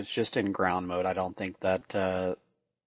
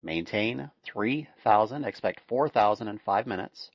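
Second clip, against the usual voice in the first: steady radio clearance readout; air traffic control. Acted. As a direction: read it like a tower controller.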